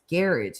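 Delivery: GARAGE as garridge, stress on the first syllable; British garage. Retold or imitated. Streamer recalling the word she kept hearing, British GARAGE. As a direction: mimic British GARAGE, rhyming with carriage. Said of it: "I kept hearing this garage".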